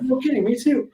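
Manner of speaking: high, thrilled squeal of agreement; excited disbelief. Retold or imitated. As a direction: blurt it out, delighted. Excited echo of a friend.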